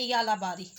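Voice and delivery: यालाबारी said clearly with a ya sound at the start; example word pronunciation. Shown as a demonstration. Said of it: "जैसे हम बोलते हैं". (यालाबारी को य की आवाज़ से बोलना)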